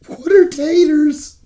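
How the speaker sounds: high, slow creaky Gollum croak. Retold or imitated. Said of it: "What's taters?".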